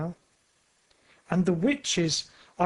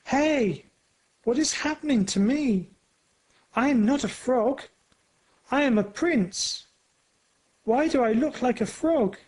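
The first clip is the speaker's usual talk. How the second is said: put-on boy screaming; 7 semitones higher than usual. A narrator's reading. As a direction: cry out in alarm, fast. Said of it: "a boy screams".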